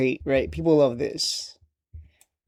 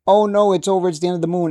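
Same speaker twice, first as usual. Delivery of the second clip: mock panic; 3 semitones higher, 4 dB louder, faster than usual. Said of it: "opposite of a bull market".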